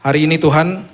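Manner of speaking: steady, earnest public prayer; measured prayer, projected evenly in long phrases; congregational prayer. Real, not acted. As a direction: lead the congregation in thanks to God. Leads closing prayer.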